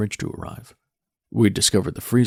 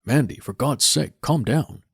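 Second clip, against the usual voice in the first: exasperated; 5 semitones higher, 4 dB louder, slower than usual. Acted. Father pleads with struggling daughter.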